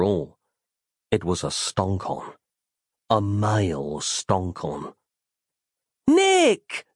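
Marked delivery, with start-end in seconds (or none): 6.1-6.9 high loud call across the grounds; a sudden overjoyed yell. Acted. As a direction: shout his name to reach him. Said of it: "yelled Roz".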